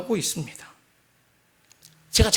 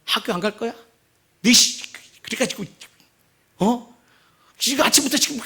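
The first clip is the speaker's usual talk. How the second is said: mock father yelling at kids to get up; retold outburst, rising higher; angry yell; 4 semitones higher than usual. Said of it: "분노하면 소리를 지릅니다". (아이들에게 버럭 소리치는 아빠)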